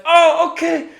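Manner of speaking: very high, loud strained voice; hammed-up falsetto ow; high pained yelp. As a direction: squeak through the pain. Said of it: "you're like".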